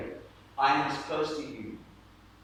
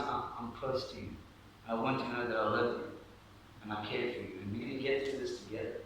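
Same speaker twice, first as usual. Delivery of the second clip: gentle whispered encouragement; 8 dB quieter than usual. Acted. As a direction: murmur comfort, settling quieter. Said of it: "he's whispering into your ear".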